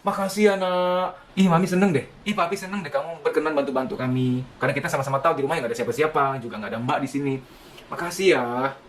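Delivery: cheerful praise. Shown as a demonstration. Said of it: "kedapatan lagi bantu nyapu".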